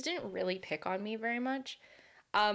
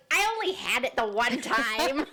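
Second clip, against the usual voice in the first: defensive; 3 semitones higher, 4 dB louder than usual. Retold or imitated. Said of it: "I got, like, defensive".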